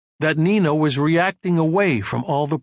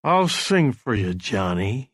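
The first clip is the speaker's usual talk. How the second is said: put-on slow, slurred drunk speech; drunken slurring; 2 semitones lower, slower than usual. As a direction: slur the words like a drunk. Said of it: "his voice slurring".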